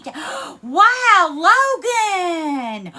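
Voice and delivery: gasping, high and loud, on the verge of crying; a real gasp of joy breaking into tears; overwhelmed, near tears. Real, not acted. Streamer thanking Logan for a gift, gasping and tearful. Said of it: "Y'all gonna make her cry".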